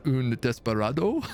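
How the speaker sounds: put-on desperado said with a faint French accent, stress on the last syllable; a light French lilt on desperado, nothing overdone; slight French accent. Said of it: "I would just then have to say with a slight French accent".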